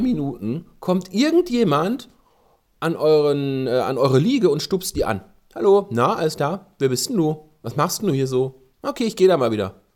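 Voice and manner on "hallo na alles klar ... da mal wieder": nosy stranger greeting. Pretend. Stranger nudging a dozing sunbather, hammed-up chummy greeting. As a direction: play a pushy stranger barging in on a sleeper. Stranger pokes you at beach.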